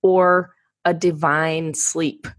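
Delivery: scripted host welcome, evenly paced; polished podcast host read-out; podcast intro read. Real, not acted. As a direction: read the show introduction to listeners.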